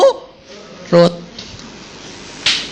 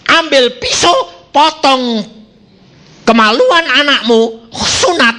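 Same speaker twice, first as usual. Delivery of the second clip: raised commanding voice of God; 6 semitones higher, slower than usual. Retold or imitated. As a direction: speak it as a divine order. God's command retold in sermon. (suara Tuhan memerintah)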